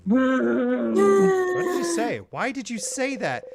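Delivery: rising, slowed demand; a touch of hurt anger; mild acted rebuke. Character turning on the friend, a mild rebuke.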